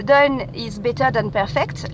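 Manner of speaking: slow, careful English motto in a French accent. Shown as a demonstration. Podcaster repeating the motto for listeners, French-accented English. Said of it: "mon accent, euh, anglais".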